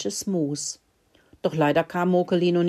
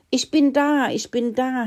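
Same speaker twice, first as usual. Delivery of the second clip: panting; 7 semitones higher, 3 dB louder than usual. Acted. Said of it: "häschelte Mokelino".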